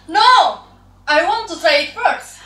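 squabbling. Acted. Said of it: "Ella's stepsisters fight to be the first".

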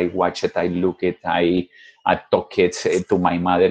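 "watch it, look it" with an added "it"; imitating wrong past tense. Teacher imitating students' bad audio recordings. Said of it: "eso suena terrible".

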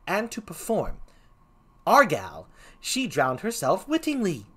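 lilting comic gravedigger; put-on Shakespearean clown; first clown voice. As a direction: question it as a swaying, sing-song clown. First clown's mock-learned argument.

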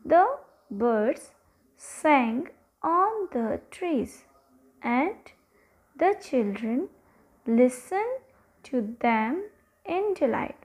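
slow, word-by-word read-aloud; dictation-style story reading. Acted. Teacher reading an English story to pupils, slow dictation style. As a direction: read slowly with pauses between phrases.

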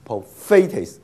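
prophylaxis as pro-FAY-tes, middle syllable punched; stress on second-last syllable. Shown as a demonstration. Teacher shows the accent position, middle syllable of prophylaxis stressed. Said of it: "前面次音节".

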